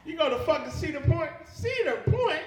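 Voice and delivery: incredulous, rising to a high Cedar Point; mock disbelief at the venue; scoffing, incredulous repeat. Real, not acted. Mocking the bachelor party choice.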